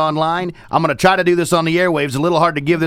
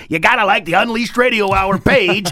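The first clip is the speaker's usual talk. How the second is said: climbing to a very high, comic pitch; hammed-up plug; 9 semitones higher than usual. Host jokingly urging listeners to like the page, hammed-up high plug. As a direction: push the sales pitch higher and higher, playfully.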